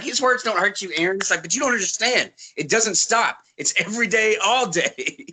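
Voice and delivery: mock a whining kid complaining to Mom; a hint of a whiny child.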